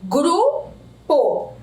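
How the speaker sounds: "Grupo" in two separate drawn-out beats; syllable by syllable. Shown as a demonstration. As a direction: open the mouth once per syllable of "Grupo", pausing between. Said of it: "Quantas vezes nós abrimos a boca?".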